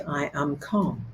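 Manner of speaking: soft, low repeated affirmation, fading away; quietly. Shown as a demonstration. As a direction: murmur it to yourself to stay calm. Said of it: "quietly say".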